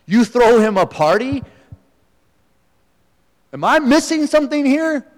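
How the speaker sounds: building from measured to high, indignant protest; indignant complaint. Retold or imitated. Older son confronting his father, rising indignation. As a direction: lay out the grievance, rising in outrage.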